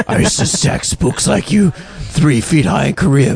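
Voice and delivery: movie tough guy. Retold or imitated. Quoting Eastwood's film character.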